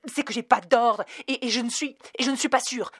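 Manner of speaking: faltering, stumbling, a bit hurt; mild hesitant clerk. Acted. Clerk answering Dana, hesitant and stung. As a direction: stammer out the excuse. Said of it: "hésitante et vexée".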